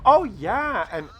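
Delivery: light mock of a teen girl; imitating the girl. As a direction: chatter it like a carefree girl.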